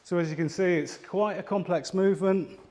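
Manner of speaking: a bit winded after kicking; out of breath. Real, not acted. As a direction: speak slightly out of breath. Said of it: "I'm a little bit out of breath".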